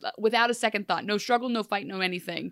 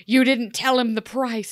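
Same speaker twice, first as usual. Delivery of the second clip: louder indignant retort, retold; 3 semitones higher, 5 dB louder than usual. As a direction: say it as an affronted accusation. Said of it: "Rumple's so indignant to Zelena".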